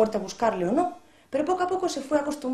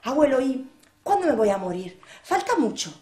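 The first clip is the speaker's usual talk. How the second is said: put-on eager boy. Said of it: "le decía al abuelo".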